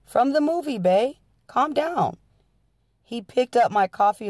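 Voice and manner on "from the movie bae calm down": much higher, pleading to soothe; high anxious soothing plea; desperately calming. A narrator's reading. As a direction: try to calm an angry partner. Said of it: "trying desperately to calm him down".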